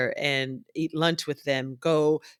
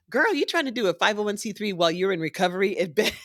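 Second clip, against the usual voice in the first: fast, laughing disbelief; incredulous friend; 4 semitones higher, much faster than usual. Retold or imitated. Friend teasing her for working from her recovery bed, fast and laughing. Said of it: "He goes".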